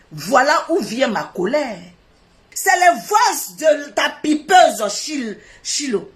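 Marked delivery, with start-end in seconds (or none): 2.5-6.1 slow, hammered angry accusation; angry slow shout. Real, not acted. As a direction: spit out the accusation slowly. Colère criée. (accusation lente et furieuse)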